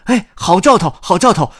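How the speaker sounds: high, loud chick voice; excited cheer. Acted. Chick Camelido sees a good omen, excited cheer. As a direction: exclaim it high with delight.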